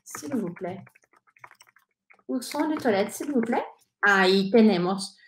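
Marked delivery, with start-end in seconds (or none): 0.0-0.8 "Où sont les toilettes, s'il vous plaît?" softer, with pauses between parts; soft model phrase. Shown as a demonstration. Teacher drills the phrase slowly, quietly. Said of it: "repetir conmigo". 2.3-3.7 "Où sont les toilettes, s'il vous plaît?" clear, rising on "plaît"; French model phrase. Shown as a demonstration. Teacher repeats the phrase for learners, clear French. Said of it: "repetir conmigo".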